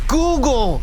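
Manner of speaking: a machine rebooting loudly; glitching robot. Acted. Robot processing.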